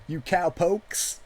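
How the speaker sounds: slow, hammy American country twang; country accent. Pretend. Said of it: "terrible American country accent".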